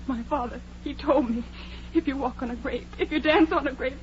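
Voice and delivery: low, soft and fearful; hushed dread. Acted. Edna warns her friends in a hushed, fearful voice. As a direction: tell it like a dark secret.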